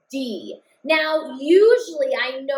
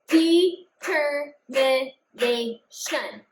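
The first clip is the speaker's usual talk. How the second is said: Determination said very slowly, each syllable apart; clapped out syllables; much slower than usual. Shown as a demonstration. Teacher repeats the word slower so kids count claps. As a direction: clap it out slowly, one beat per syllable. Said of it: "count my claps this time".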